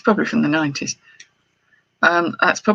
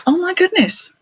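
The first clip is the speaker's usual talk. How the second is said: much higher, louder oh my goodness; surprised squeal; 14 semitones higher, 4 dB louder than usual. Real, not acted. Opening her haul to viewers, a surprised high squeal. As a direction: gasp of real delight at the find. Finds a jewel box.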